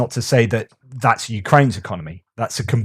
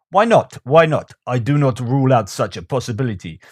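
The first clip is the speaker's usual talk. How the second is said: bad Russian accent. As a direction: quote it in a badly faked Russian accent. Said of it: "That's my really bad, uh, Russian accent".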